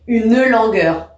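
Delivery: "Une langueur" with the e of "Une" fully pronounced; sounded final e. Shown as a demonstration. Teacher shows how verse is read, "Une langueur" with a sounded e in "Une". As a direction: say "Une langueur" slowly, voicing U-ne as two syllables. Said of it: "voilà comment il faut dire".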